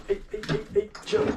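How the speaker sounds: high startled cry; startled yelp. Real, not acted. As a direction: yelp in surprise. Startled by the bird.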